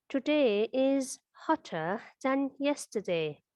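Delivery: slow reading. Shown as a demonstration. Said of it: "let's go on".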